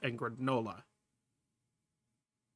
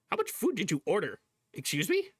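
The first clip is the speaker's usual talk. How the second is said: incredulous; 4 semitones higher, faster than usual. Real, not acted. Reacting to a huge order.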